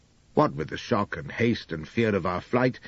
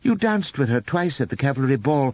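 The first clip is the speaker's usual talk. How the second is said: higher, sweet wifely voice, tearful devotion; a gentle hint of a doting young wife; lightly voiced young wife, adoring; 3 semitones higher, 3 dB louder than usual. Narrator voices Elspeth.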